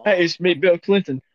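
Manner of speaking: lightly voiced politician impression; Bill Clinton. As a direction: do a loose, joking take on the president. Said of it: "John Mulaney's impression of Bill Clinton".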